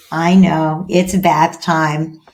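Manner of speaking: slow, low, understanding reply; calm parent. Acted. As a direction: hold firm gently with a protesting child. Parent answers protesting child calmly.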